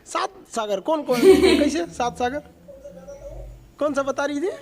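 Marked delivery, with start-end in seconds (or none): 1.2-2.4 laughing. Real, not acted. Teacher amused by seven seas answer.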